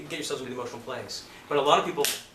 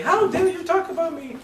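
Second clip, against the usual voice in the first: high, loud, slow challenge; indignant mother; 10 dB louder than usual. Retold or imitated. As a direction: call out in mock outrage. Acts mother's indignant challenge from back.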